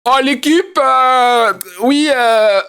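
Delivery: high, prim and proper put-on voice; proper Twitch voice. Streamer mocking his own posh voice for the Twitch crew, high and prim. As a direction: ham up a polished intellectual streamer, pitched high. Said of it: "Quand j'arrive sur Twitch".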